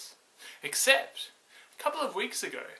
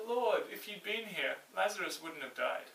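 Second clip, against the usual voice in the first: grieving sister; 2 semitones higher, 5 dB quieter than usual. Acted. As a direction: let the grief weigh on every word. Grieving sister greets Jesus.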